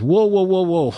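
a buddy slamming the brakes, half-acted; alarmed whoa. Buddy stops him in alarm.

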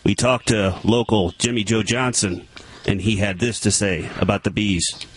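measured local TV news delivery; improvised news-report voice; mock newscaster. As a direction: read it like a field reporter handing off to a witness. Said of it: "like a newscaster and say".

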